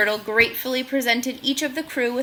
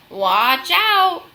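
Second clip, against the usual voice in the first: loud, high cry of alarm; shouted warning; 6 semitones higher, 8 dB louder than usual. Acted. Bunny warning the crew of falling buildings, loud high shout. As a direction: yell it to warn them. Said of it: "the bunny shouted with concern".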